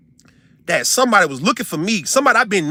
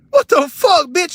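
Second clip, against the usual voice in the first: mock shout; 11 semitones higher, 4 dB louder, slower than usual. Imagined confronting her.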